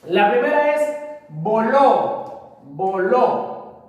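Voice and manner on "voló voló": voló said slowly, leaning on final LÓ; vo-LÓ, sounded out for a class; stress on last syllable. Shown as a demonstration. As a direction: draw out voló to show its stressed ending. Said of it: "voló es una aguda".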